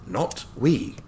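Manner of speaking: put-on chuckling old attorney, light Scottish touch; cheerful old Scottish lawyer. Hammond corrects.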